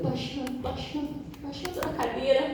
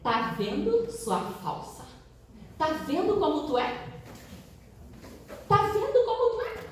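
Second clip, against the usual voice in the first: mock accusing boss, rising higher; scornful boss; 6 semitones higher than usual. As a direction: throw it at her like a sneer. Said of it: "Aí ele olhou pra mim".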